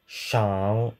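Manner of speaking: Shang said with a rising Mandarin tone. Shown as a demonstration. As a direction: let Shang climb upward as in Mandarin. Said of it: "will be said according to their current standard Mandarin".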